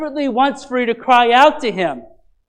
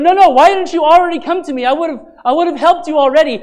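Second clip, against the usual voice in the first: quick, higher, exasperated pleading; half-scolding a friend for not coming sooner; frustrated; 5 semitones higher, faster than usual. Retold or imitated. Friend exasperated that someone waited too long to ask for help. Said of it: "you get frustrated".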